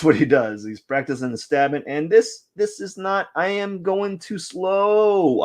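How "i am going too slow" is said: slow. Real, not acted. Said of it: "speed up the tempo".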